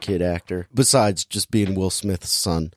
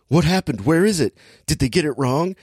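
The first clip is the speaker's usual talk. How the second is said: higher-pitched puzzled questions; mock bewilderment; 5 semitones higher than usual. Helicopter crowd when countdown gets to zero, mock bewilderment. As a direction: imitate a baffled crowd, pitched up.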